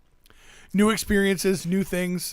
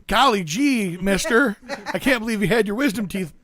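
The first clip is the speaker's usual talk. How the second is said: put-on wholesome 1950s kid; 4 semitones higher, 3 dB louder than usual. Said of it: "What are you, from the fifties?".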